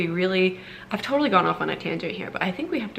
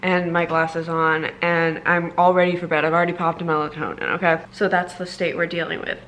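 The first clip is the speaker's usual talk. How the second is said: talking with a retainer in; speech slightly thick from a retainer; wearing a retainer. Real, not acted. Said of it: "I have my retainer in".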